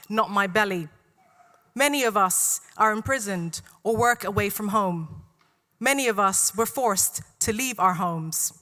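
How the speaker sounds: measured spoken-word delivery, phrase by phrase; deliberate poetry reading with falling line ends; poem recitation. Real, not acted. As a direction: recite it to a room, pausing between lines. Reads own poem aloud.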